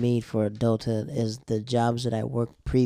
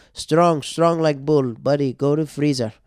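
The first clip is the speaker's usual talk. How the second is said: mock Pakistani accent, bossy and upbeat; imitating Pakistani manager; 2 semitones higher, 4 dB louder, slower than usual. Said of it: "he was from Pakistan".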